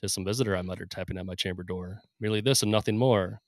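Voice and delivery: dramatic poetry reading; poem recital. Acted. Recites The Raven.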